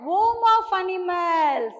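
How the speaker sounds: slow teaching. Shown as a demonstration. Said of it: "Jungle is the".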